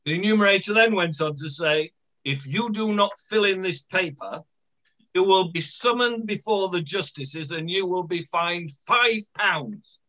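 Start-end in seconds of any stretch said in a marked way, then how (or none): 2.2-10.0 lightly acted posh official; a touch of posh officialdom. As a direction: read out a warning as a posh census man. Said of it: "he said in his posh voice".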